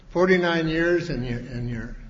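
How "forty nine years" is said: Forty-nine years punched louder and higher; emphatic repeat. Real, not acted. Speaker stressing the anniversary to the crowd, loud and proud.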